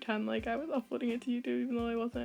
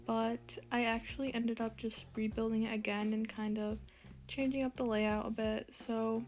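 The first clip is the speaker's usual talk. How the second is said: wearing a retainer. Real, not acted.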